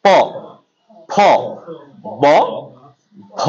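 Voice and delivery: প ফ ব ভ spaced out, lips pressed together; lip letter demo. Shown as a demonstration. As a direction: sound প ফ ব ভ one by one. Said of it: "এই জন্য প".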